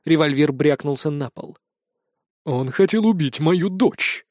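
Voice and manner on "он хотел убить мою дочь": justifying himself. Acted. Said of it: "словно оправдываясь".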